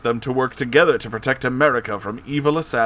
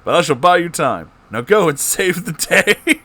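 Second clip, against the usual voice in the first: laughing; 9 semitones higher, 6 dB louder than usual. Acted. Obama voiced, laughing through.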